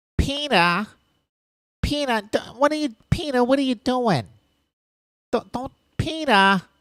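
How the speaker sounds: talking with the nose held shut, nasal female voice. Speaker does the wife character calling out to Peter: pinched-nose wife voice. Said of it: "if I just hold my nose closed and talk like this".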